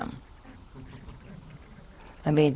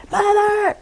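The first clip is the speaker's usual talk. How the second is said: high loud call across the room; high-pitched call of Mother; 7 dB louder than usual. Retold or imitated. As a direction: shout for her from afar. Someone calling her loudly.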